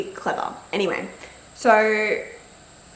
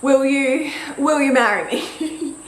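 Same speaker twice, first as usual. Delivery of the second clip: halting false starts, higher and louder; tongue-tied; 5 semitones higher, 3 dB louder, slower than usual. Retold or imitated. Partner popping the question, tongue-tied and halting. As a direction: imitate someone fumbling through a proposal. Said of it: "couldn't really get any words out".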